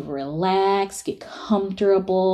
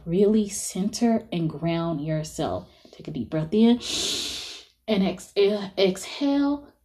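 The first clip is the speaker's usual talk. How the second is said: soothing breath-work instructor; guided meditation; 3 dB quieter than usual. Acted.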